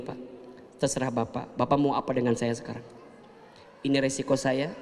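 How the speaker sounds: wife calmly asking collector for a month; calm humble plea. Retold or imitated.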